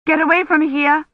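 shouted. A narrator's reading. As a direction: yell at her to get out. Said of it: "Kivrin shouted".

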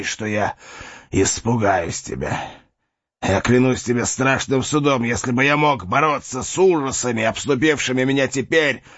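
stubborn dying warrior; defiant knight. Acted. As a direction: refuse to show fear.

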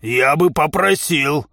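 slow, emphatic objection; put-on affronted protest; indignant. A narrator's reading. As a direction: take offence, stretching each word. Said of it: "возмутился овцебык".

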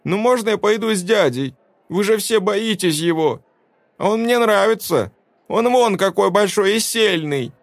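put-on high eager child voice; boy pleading to go with the stranger. A narrator's reading. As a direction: beg like a small kid. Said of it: "законючил тот".

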